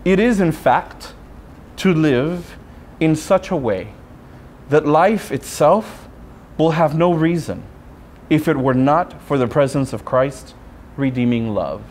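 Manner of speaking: slow, measured recitation of a sacred text; solemn reading of the rule. Shown as a demonstration. Friar reads his order's rule to the congregation, slow and solemn. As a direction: read each phrase slowly and deliberately. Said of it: "Listen to them carefully".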